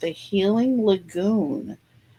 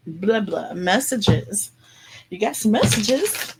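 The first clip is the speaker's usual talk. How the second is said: silly sing-song, pitched up; playfully goof around; goofy. Pretend. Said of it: "I'm being silly".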